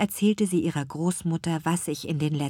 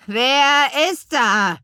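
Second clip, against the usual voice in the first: put-on high, loud, slow old witch asking; rough old witch voice; 8 semitones higher, 8 dB louder, slower than usual. A narrator's reading. Grandmother witch answers the crystal ball, rough and rasping. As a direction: rasp out the question like an old crone. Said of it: "die raue Stimme ihrer Großmutter".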